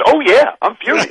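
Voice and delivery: the student owning her anger, in a mock furious squeak. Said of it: "she sounded mad because she was mad".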